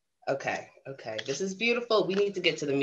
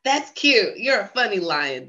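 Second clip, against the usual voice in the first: mock chuckle; 6 semitones higher, 3 dB louder than usual. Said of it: "The other lions all laughed and chuckled".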